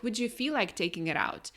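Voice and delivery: mock tentative, overly polite asking; roundabout request. Shown as a demonstration. Friend showing how not to ask about the bins, roundabout request. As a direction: ask indirectly, as a delicate suggestion. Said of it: "Don't say it like that".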